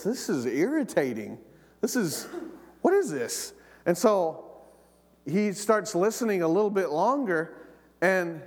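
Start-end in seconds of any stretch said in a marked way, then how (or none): 0.0-3.5 rising annoyed question, pitched higher at the end; mock irritation at a laughing stranger; irritated. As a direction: sound fed up with the radio. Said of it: "and he goes".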